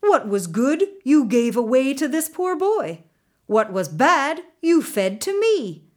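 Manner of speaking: loud, high furious roar; roaring tyrant king. A narrator's reading. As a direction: roar at them like an angry king. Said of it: "the king roared at them".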